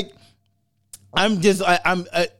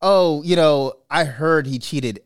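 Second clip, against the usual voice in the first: mock Janet unbothered; 4 semitones lower than usual. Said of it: "Janet sitting there saying".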